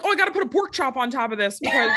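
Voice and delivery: fast, laughing mock shout; mock frantic shout. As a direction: yell it like a frantic last-minute cook. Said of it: "I'm like".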